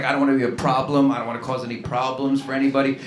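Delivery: quick, mild, apologetic mumble; a nervous guy avoiding trouble, lightly done; meek non-confrontational self. Retold or imitated. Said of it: "always saying things like".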